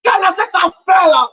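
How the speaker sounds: preacher's shouted challenge; cried-out question. Acted. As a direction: throw the question out to the hall. Refrain cried out at the peak.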